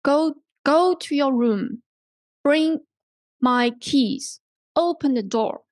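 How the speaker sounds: commands with "Go", "Bring", "Open" stressed; stress on first word. Shown as a demonstration. Teacher models commands for learners, emphasis on "Go", "Bring", "Open". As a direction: hit "Go", "Bring" and "Open", then let each command fall. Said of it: "emphasis is usually put on the first".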